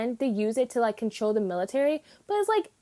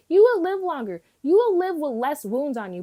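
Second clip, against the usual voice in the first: exasperated scolding; 2 semitones higher, 4 dB louder than usual. Retold or imitated. Fan scolding a stubborn anime character, exasperated and loud. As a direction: scold him like a fed-up older sister.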